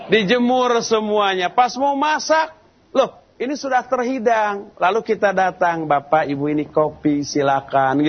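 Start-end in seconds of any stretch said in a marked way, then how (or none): 5.8-8.1 put-on lower, humble dutiful child; a dutiful child politely offering parents coffee, low and gentle.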